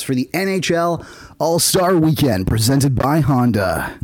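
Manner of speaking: slow, booming event announcer. Pretend. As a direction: announce it like a big sports event. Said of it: "that was a good announcer voice".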